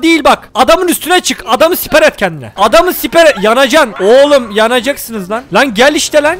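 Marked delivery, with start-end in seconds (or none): 5.5-6.4 angry shout. Real, not acted. Yelling at NPC in game.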